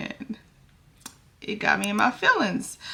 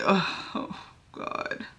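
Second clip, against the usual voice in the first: nervous whisper; 11 dB quieter, much slower than usual. Real, not acted. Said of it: "I'm just nervous".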